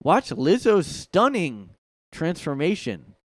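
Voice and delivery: mock tabloid announcer; clickbait headline. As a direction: sell it like a clickbait video title. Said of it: "That's what the articles are gonna say".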